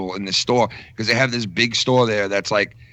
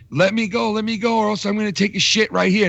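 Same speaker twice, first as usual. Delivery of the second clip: pleading thief; 9 semitones higher than usual. Retold or imitated. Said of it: "kept going like this to the security guard".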